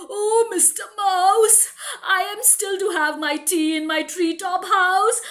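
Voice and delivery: hurried, nervous goodbye, laughing a little; hammed-up frightened owl; scared owl. Owl to the mouse, making a scared excuse. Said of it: "He's literally shivering".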